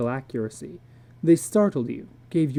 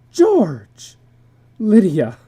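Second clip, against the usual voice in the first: shouting names; 5 semitones higher, 9 dB louder, much slower than usual. Acted. Couple shouting after lion attack.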